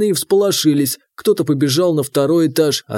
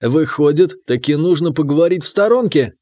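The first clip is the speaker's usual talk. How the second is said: snide. Acted. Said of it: "ехидно улыбнулся Бестужев".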